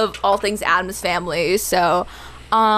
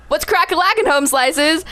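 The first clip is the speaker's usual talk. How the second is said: goofy slang greeting; 7 semitones higher than usual. Retold or imitated. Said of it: "I was saying, like".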